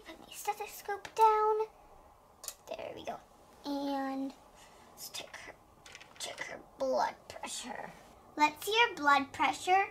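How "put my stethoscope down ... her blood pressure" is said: soft unvoiced whisper, lower. Player whispering her next move, much softer. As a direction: whisper the stage direction. Narrating actions aside.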